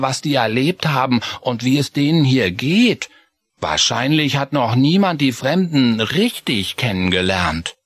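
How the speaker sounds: put-on high mouse boy musing to himself; Chris thinking aloud. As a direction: pensive young mouse. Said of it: "dachte er so für sich".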